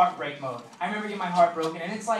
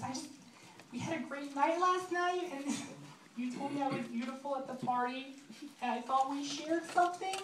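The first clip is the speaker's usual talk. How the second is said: hammed-up weepy girl, pitched way up; mock crying girl; 9 semitones higher, 7 dB quieter than usual. Jilted one-night stand pleading on video, mock crying. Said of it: "pretty much my, my crying. And she's like".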